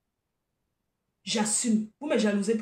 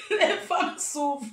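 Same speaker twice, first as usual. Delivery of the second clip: en riant; 2 semitones higher, slower than usual. Real, not acted. Rit en plaignant les femmes.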